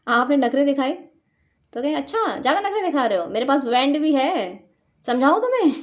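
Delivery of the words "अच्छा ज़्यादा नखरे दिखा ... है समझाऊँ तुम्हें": teasing warning, rising to a louder, higher end; mock-menacing but sweet, partner tired of the fuss; hammed-up sweet threat; playful mock threat. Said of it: "प्यारी सी भाषा में मैं आपको बोलूँ".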